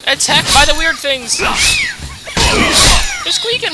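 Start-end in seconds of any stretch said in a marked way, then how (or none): 1.4-3.7 tiny squeaky creature voice; squeaky rubber duck. Pretend. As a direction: squeal it like a toy. Squeaking monsters attack in game.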